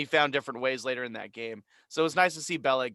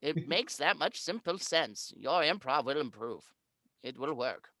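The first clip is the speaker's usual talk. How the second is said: put-on old man voice; 3 semitones higher than usual. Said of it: "That's my old man voice".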